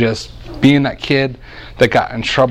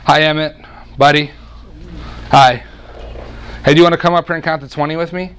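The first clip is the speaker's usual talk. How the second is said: put-on higher, brighter sing-song to a little boy; talking to a child; 4 semitones higher, faster than usual. Preacher coaxing his little son Emmett onstage, sweet sing-song. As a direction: coax a small child gently up to join you.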